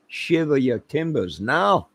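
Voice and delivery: slow, lightly put-on pirate growl. Joking about a kitchen sink, a slow lightly voiced pirate. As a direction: ham up a pirate line, slowly. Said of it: "you pirate".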